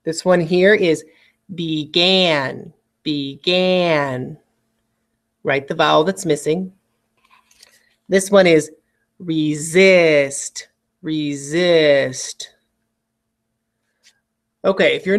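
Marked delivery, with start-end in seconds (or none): 1.6-4.4 BEGAN stretched out as "bee-gan"; syllable-by-syllable dictation. Shown as a demonstration. Teacher giving students a spelling word, BEGAN carefully sounded out. 9.2-12.5 RESIST stretched out as "ree-zist"; syllable-by-syllable dictation. Shown as a demonstration. Teacher giving students a spelling word, RESIST carefully sounded out.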